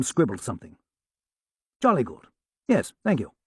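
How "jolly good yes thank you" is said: polite, lightly put-on posh English caller; an Englishman from Sotheby's, courteous and apologetic; English accent. Sam posing as a Sotheby's man, light English accent. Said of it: "spoke with an English accent".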